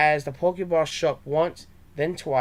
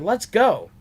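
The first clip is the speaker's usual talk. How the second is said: higher, louder eager burst; excited; 6 semitones higher, 4 dB louder than usual. A narrator's reading. Trey eager to see the shiny Cloyster, excited. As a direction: jump at the chance. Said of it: "Trey got excited and said".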